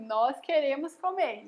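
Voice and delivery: slow, measured "Nós queremos comer"; model correction. Shown as a demonstration. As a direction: give "queremos" clearly for a child to repeat. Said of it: "Você diz assim".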